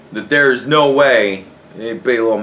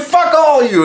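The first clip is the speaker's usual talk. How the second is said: high and louder, cracking up; laughing outburst; 5 dB louder than usual. Retold or imitated. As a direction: blurt it out high through laughter. Retells outburst while cracking up.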